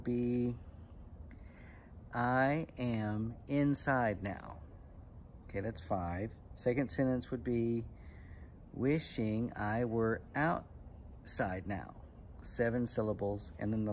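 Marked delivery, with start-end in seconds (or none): 2.1-4.6 very slow, syllable by syllable; measured haiku recital. Shown as a demonstration. Teacher reciting an example haiku to kids, slow and measured. 8.7-11.9 very slow, syllable by syllable; measured haiku recital. Shown as a demonstration. Teacher reciting an example haiku to kids, slow and measured.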